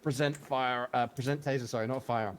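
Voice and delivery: barked command. Retold or imitated. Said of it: "And then it says, like".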